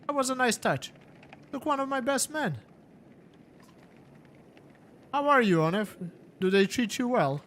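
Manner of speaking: a smug madman savouring his jabs; mocking warlord. Game master voices Akil.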